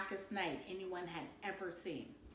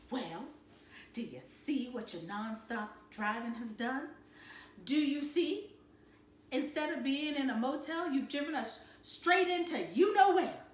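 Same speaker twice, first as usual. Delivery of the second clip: real hot; 3 semitones higher than usual. Acted. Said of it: "Mama was real hot".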